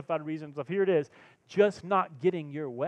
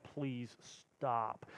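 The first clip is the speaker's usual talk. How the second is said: weary plea; 5 semitones lower, 11 dB quieter than usual. Retold or imitated. Weary reaction to sarcasm.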